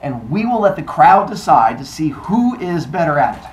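loud, declamatory challenge; proclaiming goddess. Acted. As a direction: lay down the rules to a crowd. Goddess proclaims contest rules.

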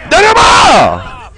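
high, slow, drawn-out yell; angry shout. Real, not acted. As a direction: bellow it out at the driver. Yelling at driver to get out. (운전자에게 내리라고 길게 소리치기)

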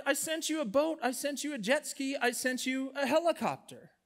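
high-pitched mock exasperation; acted incredulous God delivering the punchline; exasperated reply. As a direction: list each one as if it were obvious. God answers the complaint, exasperated punchline.

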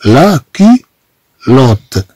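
slow لا كيلوت, split between syllables, K at the start of كيلوت; careful French pronunciation. Shown as a demonstration. Teacher shows learners how we say it, careful and slow. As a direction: say لا كيلوت piece by piece with a hard K. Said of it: "إذا طبعًا نقول هنا".

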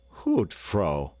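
quick, rushed interjection; hasty. A narrator's reading. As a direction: cut in hastily. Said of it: "spoke up Raff hastily".

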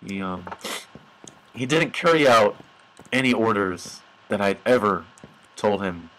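low, halting solemn tribute; low and subdued, pausing as at a graveside; mock eulogy. Player honoring the NPC he killed, mock eulogy.

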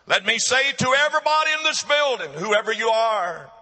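emphatic exhortation with soaring stressed words; forceful preaching. Real, not acted. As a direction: press the warning on the whole congregation.

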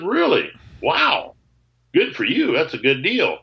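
high-pitched, swooping polite amazement; feigned delight. Retold or imitated. Seller learning his guitar was resold, feigning delight. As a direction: act impressed while hiding the sting. Feigns pleasure at bad news.

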